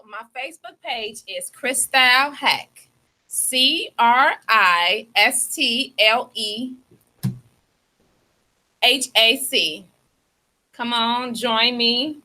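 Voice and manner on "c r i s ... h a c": each letter slow and separate; letter by letter, slow and clear for listeners; spelled out slowly. Shown as a demonstration. Host spelling her name for listeners, slow and deliberate. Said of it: "you gotta spell it out".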